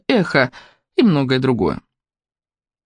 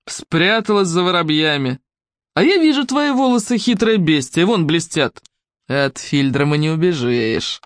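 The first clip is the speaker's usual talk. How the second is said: spiteful taunting villain. Acted.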